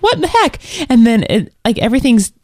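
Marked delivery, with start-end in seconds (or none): 0.0-0.6 high, squeaky disbelief; what the heck. Retold or imitated. Sarah retelling finding her saved emails deleted, squeaking high. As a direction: shriek it in mock outrage. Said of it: "I was like".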